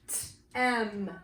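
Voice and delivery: t-, em split into onset and rhyme; sounded out. Shown as a demonstration. Teacher sounding out a chunk, t-, em in two parts. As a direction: say a lone t, pause, then em. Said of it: "chunks that we can sound out".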